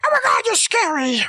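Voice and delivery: high-pitched mock fright; frightened exclamation. Child acts Scrooge seeing the goblin ghost, frightened.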